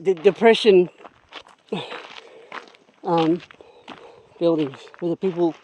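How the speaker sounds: winded, breathless between words; halting out of breath on the climb. Real, not acted. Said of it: "sorry, I'm a bit out of breath".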